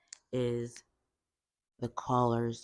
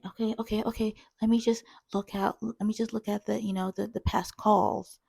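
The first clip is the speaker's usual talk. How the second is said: high, louder, stammering reassurance; flustered coworker; 9 semitones higher, 4 dB louder than usual. Retold or imitated. Coworker promising to check past calls, flustered. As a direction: imitate a frazzled coworker scrambling on the phone. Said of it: "sounded like she got hit by a tornado".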